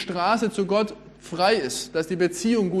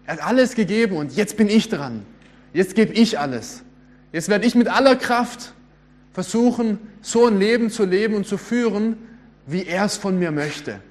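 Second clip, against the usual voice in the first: eager new convert; 3 semitones higher, 4 dB louder than usual. Retold or imitated. Preacher imitates a motivated new Christian, lightly pumped up. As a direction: voice a keen convert vowing to give everything, lightly acted. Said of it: "Habt ihr sowas schon mal gehört?".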